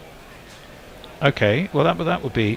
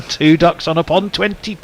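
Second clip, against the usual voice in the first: slow, sing-song bingo call; bingo caller; 6 semitones higher than usual. Pretend. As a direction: call the numbers like a bingo hall host. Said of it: "you're sounding your age".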